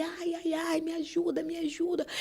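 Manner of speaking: mock cries of pain. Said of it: "ele gritava muito".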